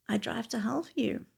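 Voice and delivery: soft unvoiced whisper; hushed devoted whisper; tender whisper. Real, not acted. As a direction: confess it under your breath. Confessional aside.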